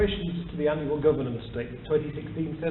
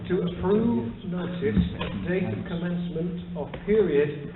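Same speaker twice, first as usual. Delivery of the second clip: slower, clearer and a bit louder; to someone hard of hearing; 4 semitones higher, 4 dB louder than usual. Real, not acted. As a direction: read it again slowly for the back of the room. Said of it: "Could you speak up, please?".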